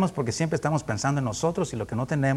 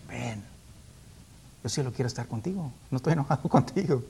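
gentle Jesus voice; 7 dB quieter than usual. Acted. Preacher voices Jesus inviting disciples.

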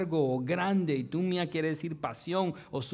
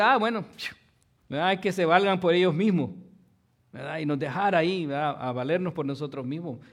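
dismissive Lord; 5 dB louder than usual. Pretend. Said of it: "que él hubiera dicho".

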